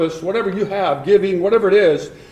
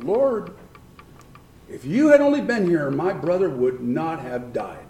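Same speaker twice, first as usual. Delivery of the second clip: mild imitated plea. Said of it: "you can almost kinda see her, like".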